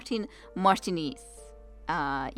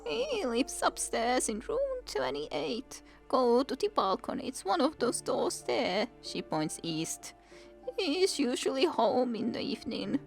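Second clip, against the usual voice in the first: put-on breathless old woman; 5 semitones higher than usual. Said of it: "trying to catch her breath".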